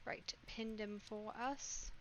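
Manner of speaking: whispered aside. Real, not acted. Muttered aside while playing.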